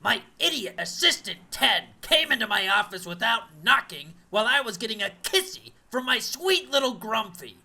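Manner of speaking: muffled behind a face cast. Acted. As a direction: talk through a covered mouth. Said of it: "my face cast makes me difficult to hear".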